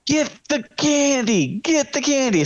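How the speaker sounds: mock creepy Doug urging; creepy coaxing imitation. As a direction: lure them in like a creep. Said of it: "Doug being like".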